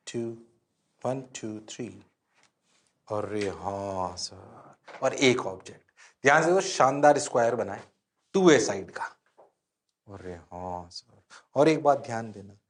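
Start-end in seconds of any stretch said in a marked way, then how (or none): 3.1-4.7 low, soft, very slow drawl; student's realisation. Acted. Student agreeing with the teacher, slowly catching on. 10.1-11.2 low, soft, very slow drawl; student's realisation. Acted. Student agreeing with the teacher, slowly catching on.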